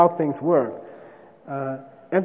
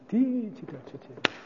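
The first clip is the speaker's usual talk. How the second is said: mild whisper; 5 semitones higher, 8 dB quieter than usual. Shown as a demonstration. Debater whispering the subject to the opponent, quietly. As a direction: breathe it gently into the ear. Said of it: "it's very mild, you just go like".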